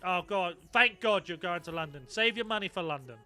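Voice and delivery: usual speaking voice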